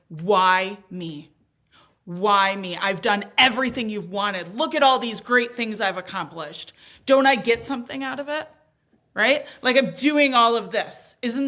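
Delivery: half-shouting a bitter plea to the sky; retold screaming at God. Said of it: "screaming at God".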